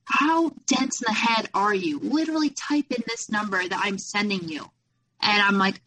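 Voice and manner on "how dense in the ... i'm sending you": mock angry yell. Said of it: "He freaked out on me".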